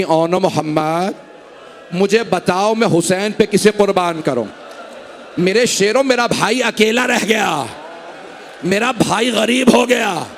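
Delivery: slow, tearful mother's cry; a mother mourning over her sons; weeping lament. Acted. Zainab weeping over her sons' bodies, slow tearful lament. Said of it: "रो के कहने लगी".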